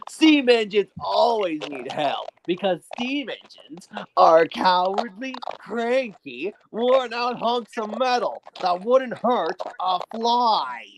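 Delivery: slow, sneering villain drawl; Diesel 10 villain voice. Shown as a demonstration. Villain voice demo for friends, slow contemptuous sneer. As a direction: look down on the steam engines. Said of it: "my personal favorite, Diesel ten".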